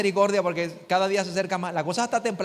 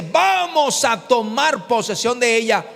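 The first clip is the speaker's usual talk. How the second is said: Caleb declaring; 3 semitones higher, 4 dB louder, slower than usual. Retold or imitated. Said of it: "Y mira lo que dice".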